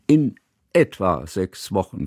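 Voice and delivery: a touch of reassurance, stress on In; calm it down gently; soothing. Acted. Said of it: "sagte Johanna wie beschwichtigend".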